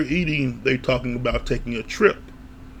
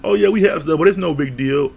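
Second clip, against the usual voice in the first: evasive breezy brush-off; 2 semitones higher, 4 dB louder than usual. Retold or imitated. Michaela dodging her sister's question with a breezy brush-off. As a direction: wave it off like nothing's wrong. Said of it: "Michaela's kinda dancing around like".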